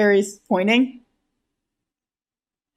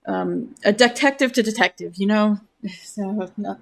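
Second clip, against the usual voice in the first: flustered denial. Acted. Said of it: "despite the fact that he is stumbling over his words".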